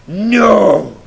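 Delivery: a gasp, then a loud cry of no; dramatic wail; anguished no. Retold or imitated. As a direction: cry out in despair. Gasped cry at dead modem.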